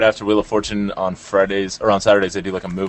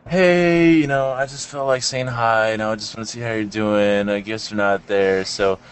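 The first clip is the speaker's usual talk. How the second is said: casual rambling voicemail; chatty message left on a machine; voicemail caller. Retold or imitated. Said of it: "they'll be like".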